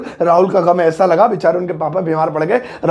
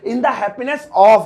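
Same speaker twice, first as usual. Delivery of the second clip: slow repeat; much slower than usual. Shown as a demonstration. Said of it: "English में कहेंगे".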